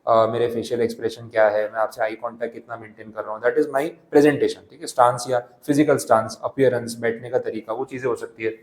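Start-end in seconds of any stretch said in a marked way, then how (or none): 3.4-4.7 slow, deliberate reading of the slide; unhurried dictation pace. Shown as a demonstration. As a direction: read it word by word for notes. Slow English summary line.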